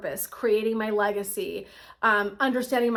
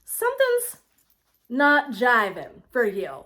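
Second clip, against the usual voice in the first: concerned friend; 3 dB louder, slower than usual. Retold or imitated. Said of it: "they're kinda going".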